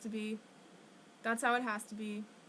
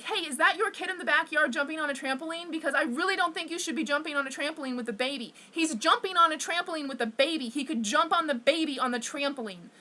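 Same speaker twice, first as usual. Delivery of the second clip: higher-pitched urgent confrontation; retold calling out; 5 semitones higher than usual. Driver calls to parents about a kid on a trampoline, calling out. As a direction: call out a rapid, higher-pitched warning. Calls from car window to two men.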